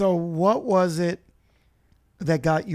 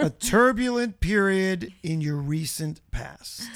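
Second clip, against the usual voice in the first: fighting game announcer. Pretend. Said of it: "I'm gonna do it in the announcer voice".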